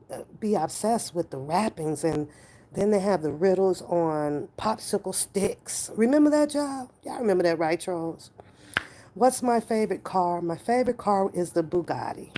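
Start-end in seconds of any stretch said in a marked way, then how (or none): 5.9-6.9 excited recall. Real, not acted. Nostalgia about popsicle riddles.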